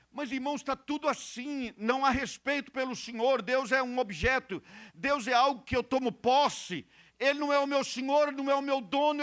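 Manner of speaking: high, sustained pulpit voice; indignant preaching. Real, not acted. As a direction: reel off the complaint with insistence. Preaches at full force.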